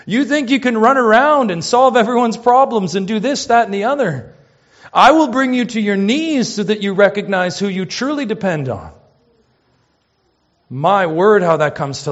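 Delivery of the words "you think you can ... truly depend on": impassioned preaching. Retold or imitated. Preacher at full force quoting.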